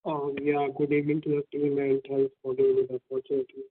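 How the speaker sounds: muffled, hand over mouth. Real, not acted. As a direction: speak through a covered mouth. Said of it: "the voice is very muffled".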